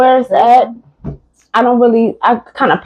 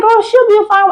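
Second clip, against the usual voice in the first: tow lot staff; 10 semitones higher than usual. Retold or imitated. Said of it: "They was like".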